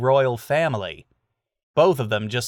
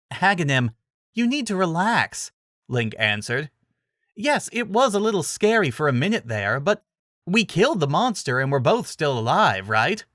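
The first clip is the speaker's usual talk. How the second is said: put-on young hero; 6 semitones higher than usual. A narrator's reading.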